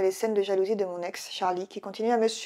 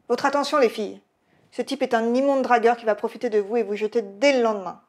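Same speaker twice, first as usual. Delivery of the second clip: public warning call; 4 dB louder than usual. Acted. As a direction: announce it to every girl in earshot. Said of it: "pour que tout le monde l'entende". (annonce à voix forte à toute la salle)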